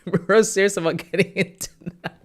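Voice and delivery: cracking up, stretching each word out; delighted laughing disbelief. Real, not acted. Laughing at fan's eagerness.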